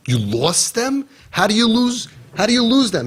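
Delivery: retelling how he reacted in astonished disbelief; retold disbelief. Recalling the volunteer's phone call, high incredulous mock disbelief. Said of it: "I'm like".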